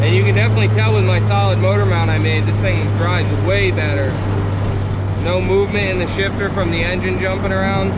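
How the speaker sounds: talking over road and wind noise; car windows down. Real, not acted. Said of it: "Sorry for any wind noise".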